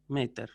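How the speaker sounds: "meter" slowly, stressed on "me"; stress on first syllable. Shown as a demonstration. Teacher closing the drill, first-syllable stress on "meter". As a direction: let "ter" fall away after a stressed "me" in "meter". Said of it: "pero en la sílaba anterior".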